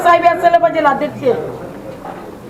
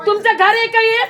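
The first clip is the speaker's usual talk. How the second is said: real indignation, voice pushed up; indignant retort; 3 semitones higher than usual. Real, not acted. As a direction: confront them over an insulting order. Angry retort to being sent out.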